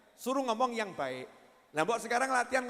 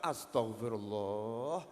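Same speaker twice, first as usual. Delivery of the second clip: low, slow, hushed astagfirullah; slow, low-voiced repentance; pious sigh of regret; 12 semitones lower, 6 dB quieter, much slower than usual. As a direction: murmur it like a man repenting in a cell. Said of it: "Di situ dia baru istighfar".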